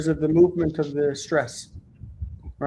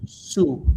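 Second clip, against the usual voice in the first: "su" set apart as the stressed syllable; primary stress. Shown as a demonstration. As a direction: place the main stress on a drawn-out "su". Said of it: "primary word stress right there".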